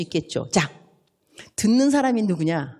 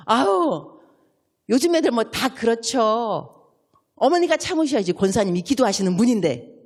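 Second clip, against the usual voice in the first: wrong advice; 2 semitones higher, 3 dB louder than usual. Shown as a demonstration. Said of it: "이렇게 말하면 된다, 안 된다?".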